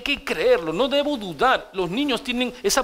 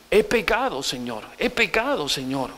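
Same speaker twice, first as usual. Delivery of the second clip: repentant confession; 2 semitones lower than usual. Shown as a demonstration. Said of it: "confronta y di".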